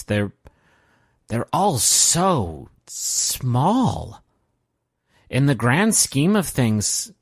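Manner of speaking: slow, halting speech with long pauses; lightly voiced weary John. John explains friendship's smallness to Merle, slow and halting. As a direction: weigh each phrase, stretching the key words. Game master plays John.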